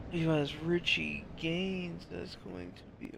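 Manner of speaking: talking through a yawn; words stretched by a yawn. Real, not acted. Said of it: "Apologize for the yawn".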